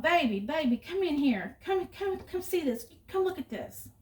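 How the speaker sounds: mild mock yell, pitched high; retold yell. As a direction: imitate dad urgently calling someone over. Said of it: "And then he yelled".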